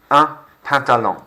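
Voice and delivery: "Un pantalon" with the final n barely said; nasal n. Shown as a demonstration. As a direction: let the n fade almost silent. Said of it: "I'm barely saying it".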